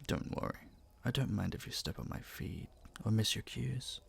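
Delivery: calm her nerves gently; soft intimate promise; reassuring. Acted. Reassuring her before the dance.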